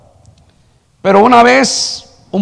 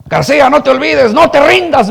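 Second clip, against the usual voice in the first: retold shout; 6 semitones higher than usual. Old boxer urging García not to give up, mild retold shout. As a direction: call it out high, like imitating a coach. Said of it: "él me gritaba siempre".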